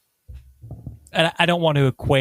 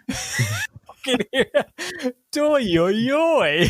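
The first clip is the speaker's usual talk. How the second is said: laughing silly voice; 11 semitones higher, much slower than usual. Pretend.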